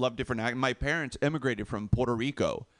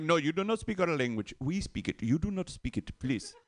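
imitated Indian English, W turned to V; Indian accent; 3 semitones higher, 3 dB quieter than usual. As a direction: mimic a politely insistent Indian speaker. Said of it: "So with the, with the W".

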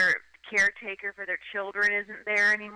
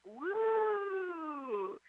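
mock crowd cheer; 10 semitones higher, 8 dB quieter than usual. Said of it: "the crowd would, like".

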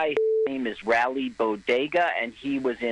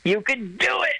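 encouraging; 8 semitones higher than usual. Real, not acted. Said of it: "I'm talking to you directly".

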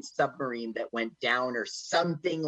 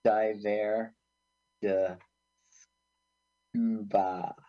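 lower, slow mock French "Diver de scuba"; more French; 6 semitones lower, slower than usual. Friend asked to sound more French, mock French accent. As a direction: ham it up like a Frenchman. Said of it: "Make it sound more French".

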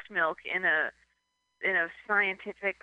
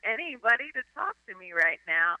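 a touch higher, lightly voiced; imitated relieved loner; 5 semitones higher than usual. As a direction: gush about personal space. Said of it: "it would be like".

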